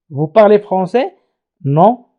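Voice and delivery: slow yes-no question and reply; slow demo question. Shown as a demonstration. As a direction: read the exchange slowly. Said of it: "ليس كما سبق نقول". (سؤال مغلق ببطء)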